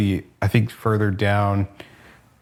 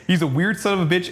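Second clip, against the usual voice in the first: higher and fast, laughing through the words; laughing repeat; 7 semitones higher, much faster than usual. Real, not acted. Repeating the joke about the Punisher, laughing quickly. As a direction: toss it off again while cracking up.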